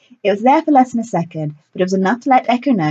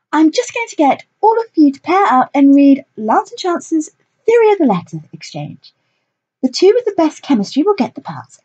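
theatrical director voice; 8 semitones higher than usual. A narrator's reading. Lilith character voice.

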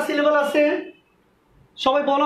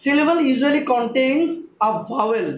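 slow rule to remember; much slower than usual. Shown as a demonstration. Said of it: "মনে রাখবে".

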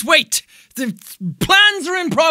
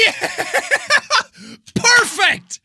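usual speaking voice

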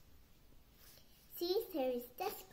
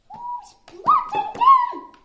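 urgent demand; 21 dB louder, slower than usual. Acted.

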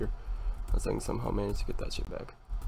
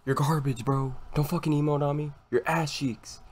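raging gamer; 5 semitones higher than usual. Real, not acted. Trash talk after loss.

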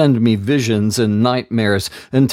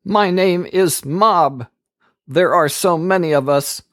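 demon answering; 8 semitones higher than usual. A narrator's reading. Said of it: "The man answered".

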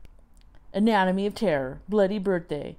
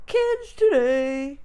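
mock old-man grumble; 7 semitones higher, 6 dB louder, much slower than usual. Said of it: "so it's like".

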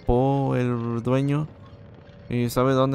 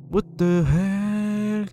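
stunned what the hell; 8 semitones higher, 4 dB louder, much slower than usual. Real, not acted. Startled by game scene.

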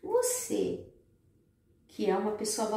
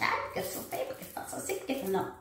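mock self-pity; faster than usual. Mocks self-pitying woman.

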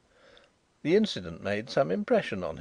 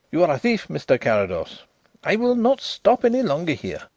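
angry accusation; 6 semitones higher, 6 dB louder than usual. A narrator's reading. Drishna accuses, storms off.

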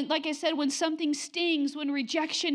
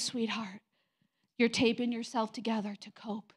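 tender voice of God; 2 semitones lower than usual. Retold or imitated.

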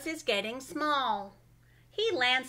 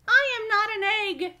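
indignant shout; 10 semitones higher, 9 dB louder, faster than usual. Acted. Bird sits on Carlos, protest.

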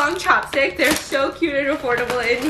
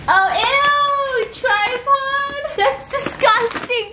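mock disgust; 10 semitones higher, much slower than usual.

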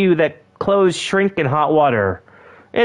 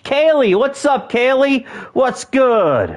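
higher, eager call-out; excited greeting; 5 semitones higher, slower than usual. Pretend. Greeting Kaylee from Firefly, excited. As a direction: hail a favorite star, pitched up.

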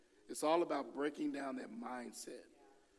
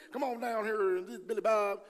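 higher, louder hammed-up preacher call; mock stiff preacher; 7 semitones higher, 7 dB louder than usual. Imagined preacher calling someone down, hammed-up and loud. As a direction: lay on the old-time preacher. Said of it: "that guy say".

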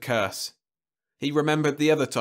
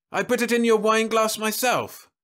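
disbelief; 11 semitones higher, 5 dB louder than usual. Acted. Husband protests in disbelief.

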